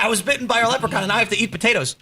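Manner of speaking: high and fast, hammed-up desperation; lightly mocking the Leprechaun victim; mock movie victim. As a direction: rattle off the plight like a silly film character. Movie character paraphrased, mocking.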